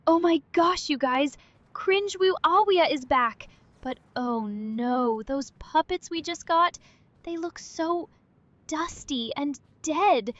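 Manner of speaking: a hint of a grossed-out character; disgusted Cringler voice. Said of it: "you're the easily disgusted Cringler".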